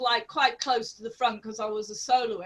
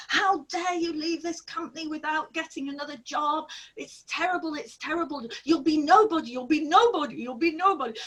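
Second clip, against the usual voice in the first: higher, mock outraged scolding; a mock furious star scolding a young dancer, higher; imitating furious Nureyev; 5 semitones higher, faster than usual. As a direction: retell his rant as a hammed-up telling-off. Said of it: "he went ballistic".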